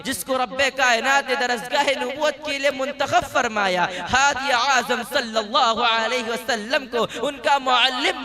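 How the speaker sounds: rousing stage oration, each line built up and rounded off; formal religious speech. Acted. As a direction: speak like a student giving a speech on the Sahaba. Student delivers religious speech. (जोशीली तक़रीर का अंदाज़)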